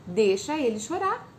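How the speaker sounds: normal talking voice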